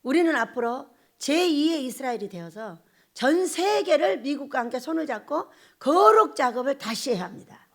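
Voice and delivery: usual speaking voice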